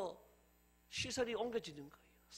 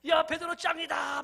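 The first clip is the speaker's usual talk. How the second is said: high, loud, drawn-out cheer; 8 semitones higher, 9 dB louder, slower than usual. Acted. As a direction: shout in admiration for your friend. Disciples cheer for Peter, acted. (높고 크게 환호하며 외침)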